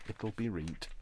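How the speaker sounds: "It'll be reet" in light Yorkshire; Yorkshire "reet" said casually; light Yorkshire phrase; Yorkshire dialect. Shown as a demonstration. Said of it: "as they say in Yorkshire".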